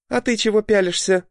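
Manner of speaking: high, sharp scornful snap. A narrator's reading. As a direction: snap at him with contempt. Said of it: "бросила она мне с испепеляющим взглядом".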